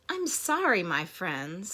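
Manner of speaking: mildly sorrowful storybook apology; sad elephant. Acted. Elephant apologising to friends, mildly sad. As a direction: apologise with a touch of sadness. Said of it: "said the elephant sadly".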